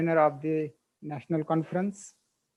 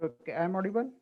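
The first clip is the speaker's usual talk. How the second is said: barely audible; 9 dB quieter, faster than usual. Real, not acted. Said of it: "your voice is very low".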